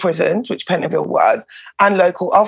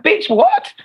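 high-pitched squawk of disbelief, cracking up; stunned, laughing squeal; shocked outrage; 13 semitones higher, slower than usual. Retold or imitated. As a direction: yelp in total shock after a sudden punch. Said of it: "You're like".

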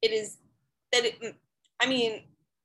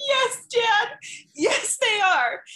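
exasperated reply; 10 semitones higher, 4 dB louder, much slower than usual. Retold or imitated. Exasperated reply to her dad.

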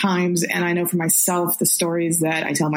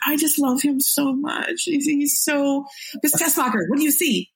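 swooning fan quote; 5 semitones higher than usual. Retold or imitated. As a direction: gush over him like a smitten fan. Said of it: "You're like".

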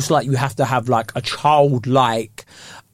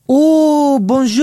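high, louder "Oh, bonjour" as it dawns on her; realising French woman; 11 semitones higher, 5 dB louder, much slower than usual. Retold or imitated. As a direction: play her sudden understanding, pitched up. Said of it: "And she's like".

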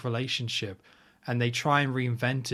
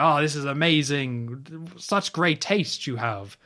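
mock delighted general; 3 semitones higher, slower than usual. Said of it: "the Kuskov is all like".

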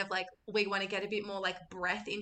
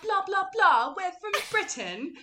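high, hammed-up British accent; put-on British accent; 10 semitones higher, 5 dB louder than usual. Teenage girls fooling a bar, fake British accent. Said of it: "pretend to be British".

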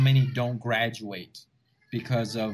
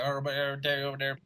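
fast, soft run-together mumble; lightly imitated mumbling Texan; Boomhauer mumble; 4 dB quieter, much faster than usual. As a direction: rattle it off like Boomhauer. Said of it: "instead of the boomhauer".

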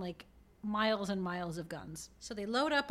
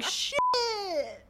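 higher, louder startled yelp, laughing; mock startled curse; 11 semitones higher, 6 dB louder than usual. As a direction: blurt it as the guns appear. Guard sees guns, acted.

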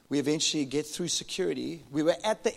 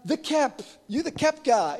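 excited recognition; 10 semitones higher, 8 dB louder, slower than usual. Retold or imitated. Recognising the stranger.

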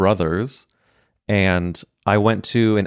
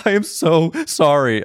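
mock apology; 8 semitones higher than usual. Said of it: "She was also laughing at me".

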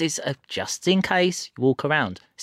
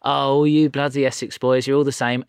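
hint of Essex hairdresser; lightly voiced chatty Essex woman; Essex accent. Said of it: "she was like".

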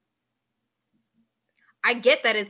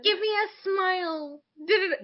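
mocking creepy men at fan events; creepy old man; 10 semitones higher than usual. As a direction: put on a leering old man's coax.

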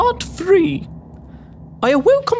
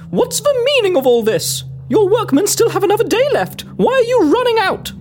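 higher-pitched challenge; indignant; 3 semitones higher than usual. Acted. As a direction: demand an answer from the foreman. Confronts the departing foreman.

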